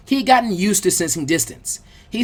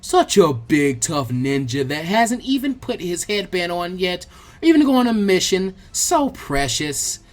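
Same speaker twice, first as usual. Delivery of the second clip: mock cooing. Girl coos while pinching cheeks.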